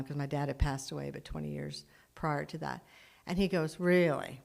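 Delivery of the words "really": lightly mocking retold question. Mechanic doubting her dad watched over her, mildly mocking. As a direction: say it with understated mockery, falling at the end. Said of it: "Really mockingly".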